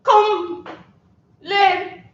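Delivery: put-on French accent. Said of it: "see a scene of that character".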